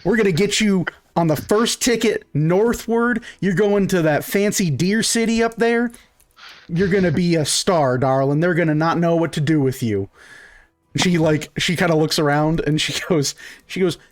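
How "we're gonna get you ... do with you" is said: higher, thrilled proud mother; excited mom. Acted. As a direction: swept up in her daughter's future. Mom now eagerly backs daughter.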